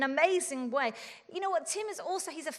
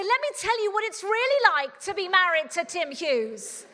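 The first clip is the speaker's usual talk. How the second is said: exasperated retort; 4 semitones higher, 7 dB louder than usual. Retold or imitated. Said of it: "I'd wanna say".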